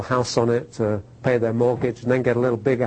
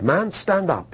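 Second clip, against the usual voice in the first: gruff command, pitched up; gruff German; 5 semitones higher, slower than usual. Retold or imitated. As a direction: order him up like a gruff preacher. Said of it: "he was a gruff, big, you know, German".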